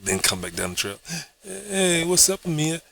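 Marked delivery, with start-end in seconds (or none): 1.4-2.8 cheesy greeting. Acted. Retry greeting from the trail.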